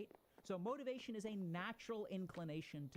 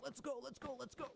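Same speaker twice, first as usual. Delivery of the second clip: much higher, barked coach urging; drill coach; 7 semitones higher than usual. Retold or imitated. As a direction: push him like a drill sergeant. Willpower as inner coach.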